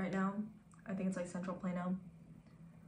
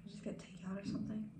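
whispering; 7 dB quieter than usual. Real, not acted. Soft suggestion aside.

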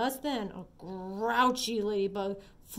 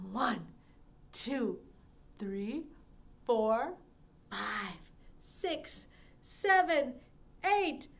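rising counting; 2 semitones higher, much slower than usual. Shown as a demonstration. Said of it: "Start way down low ... get taller".

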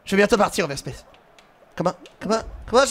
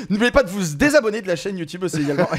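laughing; 4 semitones lower, faster than usual. Pretend. Jokey fake outro to viewers.

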